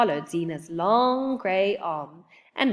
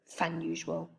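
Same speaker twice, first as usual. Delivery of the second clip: snickering; 3 semitones lower, 10 dB quieter than usual. A narrator's reading. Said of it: "Oliver snickered".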